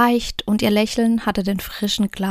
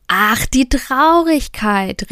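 pleased cry of recognition; delighted exclamation; 3 semitones higher, 5 dB louder, slower than usual. A narrator's reading. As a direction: greet it like an old friend. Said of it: "rief die kleine Frau erfreut aus".

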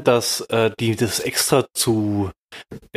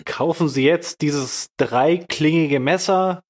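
teleshopping pitch; 2 semitones higher, slower than usual. Pretend.

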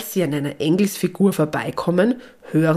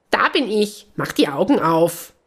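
impish little call, a bit raised; lightly voiced gnome; 2 semitones higher than usual. The hidden gnome answers Lisabella, a lightly voiced cheeky call. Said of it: "ruft die Stimme".

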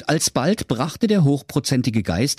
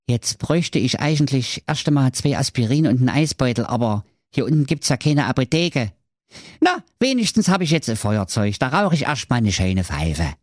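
quick muttering to himself, slightly raised pitch; muttering Schwerthelm; 4 semitones higher, faster than usual. A narrator's reading. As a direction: grumble to yourself in a fast character voice. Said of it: "rieb sich das Ei an seinem Kopf und murmelte". (schnelles Gemurmel eines lädierten Helden)

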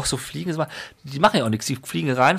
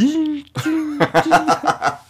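imitated fly buzz. Imitates flies buzzing round the room.

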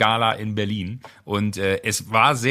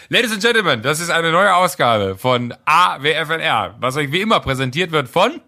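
mock show announcer; 3 semitones higher, 4 dB louder than usual. Host opening the podcast for listeners, in a mock announcer voice. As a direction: announce the episode like a showman.

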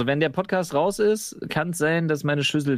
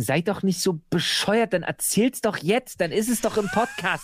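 exasperated viewers; 5 semitones higher than usual. Retold or imitated. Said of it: "weil sie sich denken".

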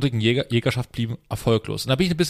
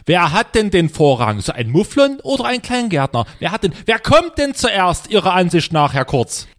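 indignant resident; 5 semitones higher, 4 dB louder than usual. Acted. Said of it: "ich spreche quasi den Anwohner".

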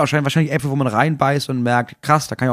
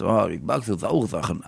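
put-on child voice; 6 semitones lower, 6 dB quieter than usual. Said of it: "ein Kind hast, das so macht".

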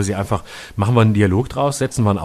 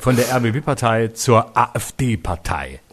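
slow spelled-out; much slower than usual. Pretend.

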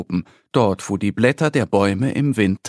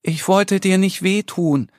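higher squirrel voice, apologetic; a hint of a small squirrel, higher pitch; little squirrel explaining; 6 semitones higher than usual. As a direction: explain you meant no harm. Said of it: "erklärt das Eichhörnchen".

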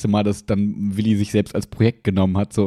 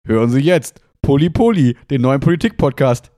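chipper 1950s ad; 4 dB louder than usual. Acted. Ad announcer tagline.

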